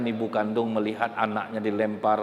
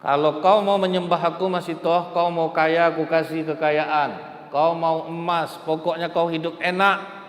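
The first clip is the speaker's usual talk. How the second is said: higher, louder voice of a tempting king; tempting Pharaoh; 6 semitones higher, 4 dB louder than usual. Acted. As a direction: lure her with wealth, boldly. Pharaoh tempts Masitoh with riches.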